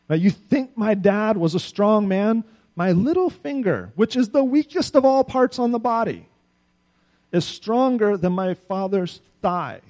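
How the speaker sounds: loud, high, swaggering king; young king taunting his people about his father, loud and boastful; arrogant boast. Acted. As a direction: crow it over the crowd like a proud young king.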